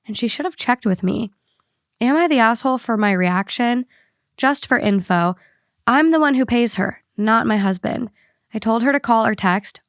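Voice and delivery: even, measured read-aloud voice; podcast host reading a written account; reading a post aloud. Acted. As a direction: read out a personal story clearly. Reads the listener post aloud.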